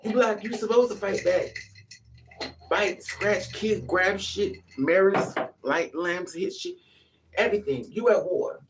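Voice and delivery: loud, slow, punched commands; rally them to fight; fired-up exhortation. Real, not acted. Urging women to fight back.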